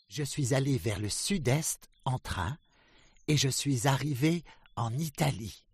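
high, loud proud duck voice; Drake the duck. A narrator's reading. Drake tells the ducks of France, high and loud. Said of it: "said Drake".

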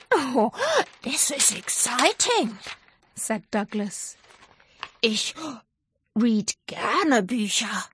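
lightly voiced excited dragon; eager, happy little dragon.

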